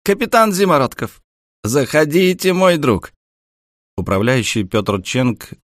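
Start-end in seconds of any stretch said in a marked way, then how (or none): 0.0-3.1 high, loud hearty greeting; effusive welcome. A narrator's reading. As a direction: welcome him like an old friend. Manager greets warmly.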